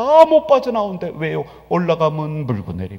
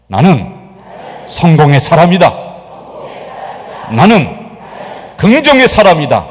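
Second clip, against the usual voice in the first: a louder, emphatic creed the crowd repeats; loud declaration; 3 semitones lower, 6 dB louder than usual. Real, not acted. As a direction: proclaim it loudly, word by word. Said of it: "한번 다시 합시다".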